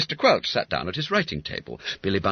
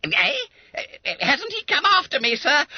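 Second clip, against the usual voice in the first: very high, loud anxious question; hope mixed with fright; fearful bewilderment; 4 dB louder than usual. Acted. Boy asking if the policeman came for him, high anxious.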